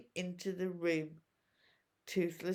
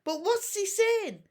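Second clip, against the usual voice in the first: higher, lightly voiced worried friend; worried boy; 10 semitones higher, 4 dB louder than usual. A narrator's reading. Fishlegs checking on Hiccup, lightly worried. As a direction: ask with concern.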